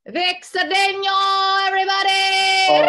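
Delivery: Vic Cedeno sung out with a rolled Spanish r, high and loud. Acted. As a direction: announce Cedeno with a trilled r, hammed up like an emcee. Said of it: "trilling my R's, pretending to be Latin".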